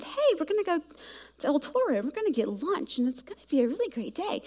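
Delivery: lightly put-on sweet, soft mom voice, not much changed; sugary sweet mom. Mom telling kids about lunch at El Toro, mock-sweet and soft. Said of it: "Didn't say it just like that, but kinda like that".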